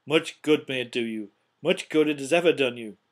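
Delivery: loud, bitter jibe; scornful. A narrator's reading. Scrooge scoffs at his nephew's Christmas, scornful. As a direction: deliver it as a forceful sneer.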